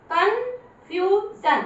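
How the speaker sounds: कन्फ्यूजन drawn out slowly; slow demo reading. Shown as a demonstration. Teacher reading aloud for pupils, very slow. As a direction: stretch कन्फ्यूजन for the class. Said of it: "collision".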